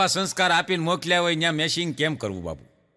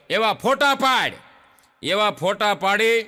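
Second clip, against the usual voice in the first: slow emphasis. Retold or imitated.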